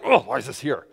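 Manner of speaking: groan, then high exasperated complaint; crabbing. Retold or imitated. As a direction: gripe loudly like a fed-up husband. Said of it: "and I start crabbing".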